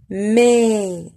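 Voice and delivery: MAIS with a long, open E, falling. Shown as a demonstration. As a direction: draw out the vowel of MAIS, mouth open as in "bed". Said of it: "je prononce ouvert". (MAIS avec un è ouvert et allongé)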